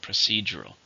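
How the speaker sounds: "Procedural" stressed on "ce"; second-syllable stress. Shown as a demonstration. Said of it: "stress in the second".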